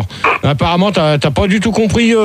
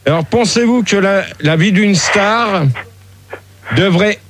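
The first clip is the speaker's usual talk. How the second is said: slow, deliberate question read like a TV host; pretend talk-show host; slower than usual. Pretend host asks the panel the question in a slow, formal manner. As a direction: pose the show's question to the guests, slowly.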